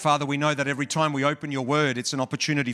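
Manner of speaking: opening prayer. Real, not acted. Preacher praying to God before the message, prayerful. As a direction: pray it in measured phrases with pauses between.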